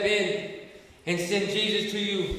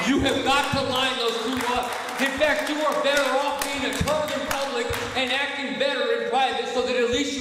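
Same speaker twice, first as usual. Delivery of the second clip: higher and forceful, punching it; emphatic preaching; 4 semitones higher than usual. Acted. Preacher telling the group to line life up, forceful. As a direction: drive the point home.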